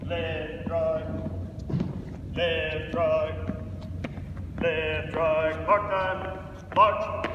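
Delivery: stretched, high barked drill calls; drawn out parade commands. Real, not acted. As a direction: call the color guard like a drill sergeant. Color guard drill commands.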